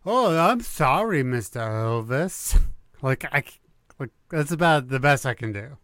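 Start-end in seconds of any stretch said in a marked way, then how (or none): 0.1-2.6 put-on thick-tongued baby voice. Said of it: "It's more of a thick tongue thing".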